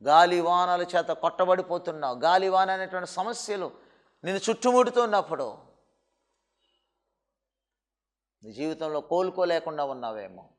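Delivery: preacher consoling someone in distress; soft reassuring preaching. Acted. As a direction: comfort the grieving listener quietly. Preacher comforts softly.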